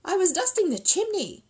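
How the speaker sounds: high, mildly plaintive bear voice; sad. Acted. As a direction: explain it sorrowfully. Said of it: "said Paddington sadly".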